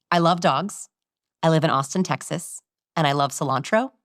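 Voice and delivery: CILANTRO lifted like a question; two plain statements, then a rising CILANTRO; question inflection on one. Shown as a demonstration. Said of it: "add the question inflection to one".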